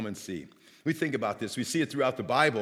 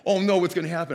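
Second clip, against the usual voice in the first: higher, louder retold burst of worry; mock alarm; 6 semitones higher, 8 dB louder, faster than usual. Runner fearing something will fall on him, acted alarm. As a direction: act out a sudden panicky thought.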